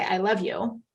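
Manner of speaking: tossed-off, unconvincing I love you; a throwaway line that earns only "Great."; offhand I love you. Shown as a demonstration. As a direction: say it like a chore, no feeling behind it. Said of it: "He's like, like you said, "Great".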